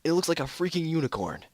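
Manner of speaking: said loudly. Acted. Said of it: "Neil said loudly".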